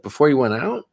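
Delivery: incredulous questioning. Retold or imitated. Wife's suspicious follow-up question, retold.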